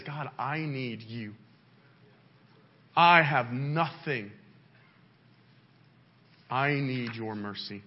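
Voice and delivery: humble plea. Acted. Models humble prayer to God.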